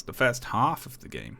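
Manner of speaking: incredulous. Real, not acted. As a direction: echo it back in disbelief.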